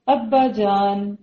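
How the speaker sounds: very slow, drawn-out endearment; loving address. Acted. Son addressing his father, lovingly. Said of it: "انداز کتنا پیارا".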